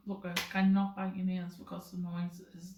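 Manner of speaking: measured, reasonable request; calm tone. Shown as a demonstration. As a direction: ask evenly, without any edge. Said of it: "there's tones, there's tones".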